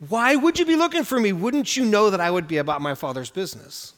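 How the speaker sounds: gentle, kindly reminder, lifting on the question; with kindness. Retold or imitated. Boy Jesus gently reminding his parents, kind and patient. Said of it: "reminding them with kindness".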